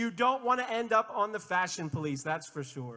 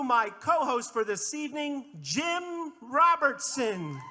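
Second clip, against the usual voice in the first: raised, stretched-out name reveal; announcer's introduction; 3 semitones higher than usual. Real, not acted. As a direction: build up and draw out the name. Host introduces co-host to crowd.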